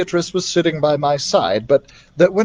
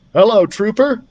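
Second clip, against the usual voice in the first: smiling; 7 semitones higher, 4 dB louder than usual. Acted. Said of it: "he said, smiling".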